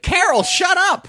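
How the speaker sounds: high, drawn-out mock yell; fed-up friends' shout; exasperated scolding. Friends scold the drunk lady.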